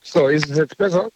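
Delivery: tinny voice over a car phone; talking through a crackly car phone line. Real, not acted. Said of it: "ich habe das Autotelefon an".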